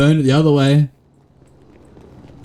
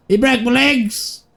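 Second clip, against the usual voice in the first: much higher, slow hammed-up wail; mock wail; 11 semitones higher, slower than usual. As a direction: overplay Nigel's squealing cry. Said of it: "and then Nigel just out there screaming".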